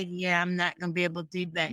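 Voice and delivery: fast, firm refusal; quick brush-off. Retold or imitated. Host sets a boundary fast and final. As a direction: rattle it off and close the door. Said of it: "when I say".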